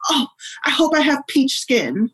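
put-on high-pitched, wishful child's voice; hopeful little child. Three-year-old daughter wishing to her parent, hopeful and high. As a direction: imitate a small girl making a wish.

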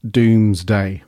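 DOOMSDAY drawn out with weight on both halves; portentous DOOMSDAY. Shown as a demonstration. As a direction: announce Doomsday slowly, in two weighty beats. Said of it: "I have to say it like that".

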